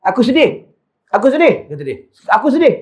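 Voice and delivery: sad lament. Retold or imitated. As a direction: repeat the lament as if near tears, mildly. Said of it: "Dia menangis".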